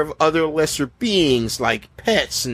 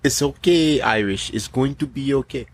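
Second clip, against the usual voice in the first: put-on Somali pirate accent. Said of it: "Captain Phillips?".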